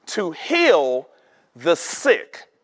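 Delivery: "heal" drawn out, pause, then "the sick"; emphatic reading. Shown as a demonstration. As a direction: lift "heal" and set "the sick" apart. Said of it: "read it with the emphasis that's on it".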